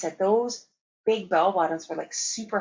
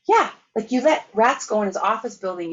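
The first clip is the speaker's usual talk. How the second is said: higher, louder playful jab; teasing exclaim; 3 semitones higher, 5 dB louder than usual. Retold or imitated. Telling her mom why she is remembered, high and playful. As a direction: rib her with a grin.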